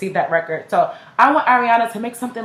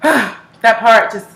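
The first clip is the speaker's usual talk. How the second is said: 1 sighing, moved; 5 dB louder, much slower than usual. Real, not acted. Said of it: "tears are coming to my eyes".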